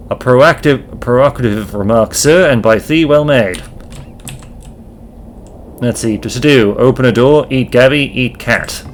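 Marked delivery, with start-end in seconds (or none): 0.1-3.6 a lightly voiced old-fashioned gentleman; archaic landlord. Landlord demands the lodger sign paperwork, lightly formal. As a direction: speak in stiff thee-and-thou formality. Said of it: "When did you start talking like this?".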